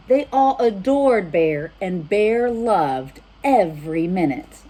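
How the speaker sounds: put-on lively read-aloud for children; storybook reading. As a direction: read it warmly to little listeners. Reads storybook aloud to kids.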